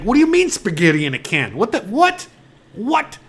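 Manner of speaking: building mock astonishment, climbing in pitch; wife's disbelief. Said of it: "It's like".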